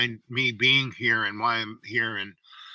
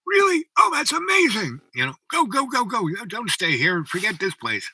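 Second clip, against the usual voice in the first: very high, loud burst of retold astonishment; amazed, urgent excitement; 10 semitones higher, 5 dB louder than usual. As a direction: gush in amazement, then urge them off. Retold amazed listener urging him.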